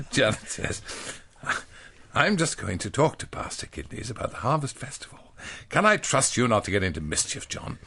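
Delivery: lightly hammed-up children's reader voice; reading to children. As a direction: read it like an old school primer. Reads a children's primer aloud.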